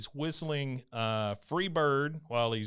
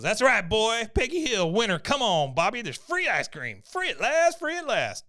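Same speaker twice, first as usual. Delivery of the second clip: high, loud, hammed-up victory cries; gloat, climbing to a high celebratory wail; triumphant mock crowing; 10 semitones higher, 5 dB louder than usual. Peggy celebrates winning free ice cream, loud and triumphant. Acted victory cry in recap.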